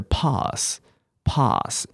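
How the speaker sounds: "pass" with a long open ah, drawn out; British pronunciation. Shown as a demonstration. Teacher showing the class British English, long-ah "pass". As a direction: say "pass" slowly the British way, pahs. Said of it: "英式英文是".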